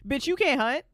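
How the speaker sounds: loud, mocking scold as she retells it. Woman mocking a would-be hero, loud mock scolding. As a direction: jeer at him like the character did.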